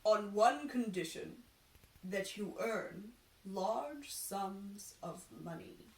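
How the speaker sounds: slow, knowing seer; drawn-out prophecy with a catch; fortune teller voice. Acted. Fortune teller gazing in the ball, slow knowing seer.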